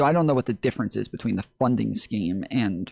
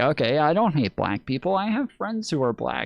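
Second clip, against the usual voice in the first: mocking parody voice, pitched higher; 4 semitones higher than usual. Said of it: "It's like".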